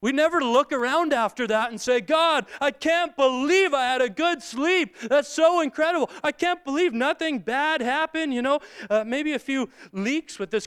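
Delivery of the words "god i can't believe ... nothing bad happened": higher-pitched, incredulous thanks to God; mock amazement. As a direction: marvel at it as if it were a miracle. Imagined amazed prayer of thanks.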